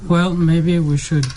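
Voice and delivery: ordinary delivery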